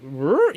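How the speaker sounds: a short growling Rrr; mock growl. Imitating Jude Law's odd growl to a friend. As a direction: growl it like a weird faced actor. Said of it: "Jude Law is like".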